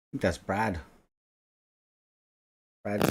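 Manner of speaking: robotic glitchy audio. Real, not acted. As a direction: voice breaking up like a robot. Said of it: "getting all robot-y".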